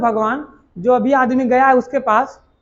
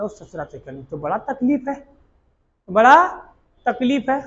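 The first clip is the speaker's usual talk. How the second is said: mock crying. Prince crying to Channa over the corpse, hammed-up weeping. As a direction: play a half-faked sob over his suffering. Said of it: "वो रोने लगा वहीं पे".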